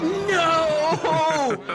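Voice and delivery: high, loud no; alarmed shout. Retold or imitated. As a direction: yell to stop him. Running to stop patient.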